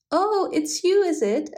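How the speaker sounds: pleasantly startled recognition; surprised. A narrator's reading. Rabbit recognising the hedgehog, high and surprised.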